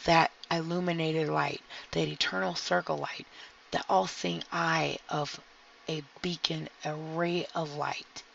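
soothing guided meditation voice; calm grounding exercise. Acted. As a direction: guide them gently through the grounding.

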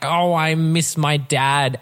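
slow, overwrought line; mock melodrama, slow; mock dramatic. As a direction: ham up the sad movie line. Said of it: "the dramatic".

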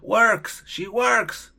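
"works" con la S final bien marcada; stressed S ending. Shown as a demonstration. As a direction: remarca la S de "works". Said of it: "siempre estoy como un profesor loquito". ("works" marcando la s final)

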